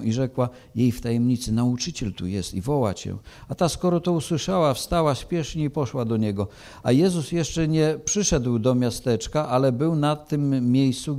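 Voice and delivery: measured, solemn Gospel reading; scripture reading. Acted. Preacher reading John to the church, solemn and measured. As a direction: read the Gospel to the congregation with gravity.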